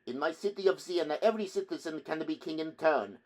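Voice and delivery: put-on high, loud, indignant Italian accent; defiant Italian challenge. A narrator's reading. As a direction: fling it back hotly with an Italian accent. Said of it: "uttered the name like a challenge".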